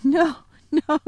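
Lucy laughs at the giant's mistake; laughing. Acted. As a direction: laugh through the no.

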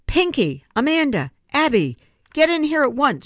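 put-on grandpa bellowing the girls' names, high and loud; angry shout. Grandpa shouts for the girls to come at once, loud and angry. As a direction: summon them like a furious grandfather. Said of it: "she heard Grandpa shout".

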